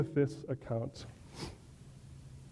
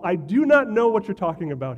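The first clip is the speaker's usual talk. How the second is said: louder, indignant denial; a flustered Peter, louder and defensive; 3 semitones higher, 6 dB louder than usual. Acted. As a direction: push the accusation away. Peter denies Jesus.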